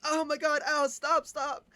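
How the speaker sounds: high, loud mock yelps; exaggerated pretend ouch, begging to stop; faked pain. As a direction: cry out as if being hurt. Faking pain from the burn.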